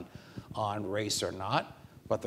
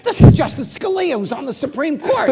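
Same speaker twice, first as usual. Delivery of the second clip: much louder and higher, pointed; emphatic introduction; 15 dB louder than usual. Retold or imitated. Judge pointing out Scalia to star-struck lawyers, loud and high. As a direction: make them see who's really here.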